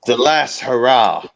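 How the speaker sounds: loud, grand declaration; loud proclamation. Acted. Proud man announcing his last hurrah, loud. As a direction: announce it boldly.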